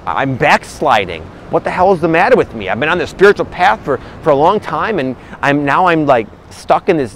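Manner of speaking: mock-rant at yourself, half-hearted; frustrated self-talk. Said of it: "they get really frustrated".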